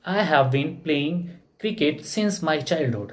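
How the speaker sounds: very slow, each word laid out for students; slow model sentence. Shown as a demonstration. Teacher giving the English answer, spoken very slowly. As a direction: dictate it slowly so the class can follow. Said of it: "तो क्या होगा?".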